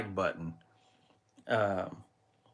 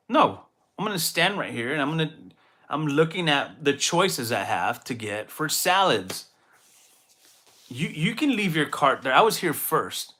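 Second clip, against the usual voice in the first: defiant reply; 3 semitones higher than usual. Retold or imitated. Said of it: "I'm like".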